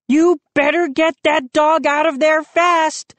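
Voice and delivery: Moose warning. A narrator's reading. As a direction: warn them with a smirk. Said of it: "he warned".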